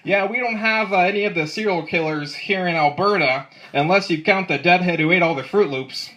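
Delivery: lightly put-on Canadian accent; half-hearted Canadian accent; bad Canadian accent. Comic joking about Alberta, bad Canadian accent. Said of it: "That was my bad Canadian accent".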